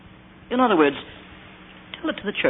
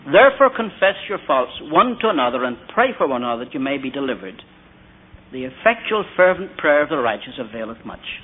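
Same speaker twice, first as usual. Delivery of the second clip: scripture reading. Shown as a demonstration. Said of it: "James five sixteen".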